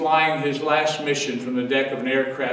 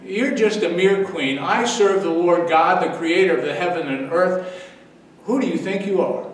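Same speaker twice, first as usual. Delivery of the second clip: indignant rebuke; 2 semitones higher than usual. Pretend. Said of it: "could have said".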